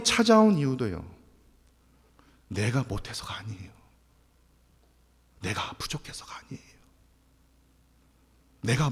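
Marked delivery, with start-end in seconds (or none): 2.5-6.7 soft unvoiced whisper. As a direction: breathe it out gently. Preacher drops to whisper. (속삭이듯 위로하기)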